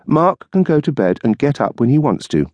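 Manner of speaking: dry retort as the wife; wife's voice. Acted. Wife waiting up for her husband, tart retort.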